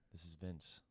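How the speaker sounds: hushed radio-host sign-on, played up; quiet, low bass voice. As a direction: croon it softly into the mic. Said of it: "it was so quiet it wasn't picking it up".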